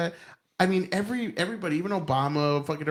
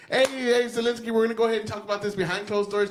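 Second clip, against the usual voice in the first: higher-pitched call to step in; lightly acted intervention, pitched up; mock aide interrupting; 6 semitones higher than usual. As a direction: pretend handler cutting a meeting short. Pretend assistant cutting in on Zelensky.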